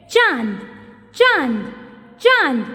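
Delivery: चांद with open mouth and nasal आं; teacher showing candrabindu in चांद; nasal vowel demo. Shown as a demonstration. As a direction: open wide on चांद, sound through nose. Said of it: "नाक से तो आवाज़ निकली".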